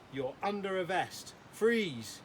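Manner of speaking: put-on proud kid delivering a joke; eager joke teller. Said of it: "This is his best one".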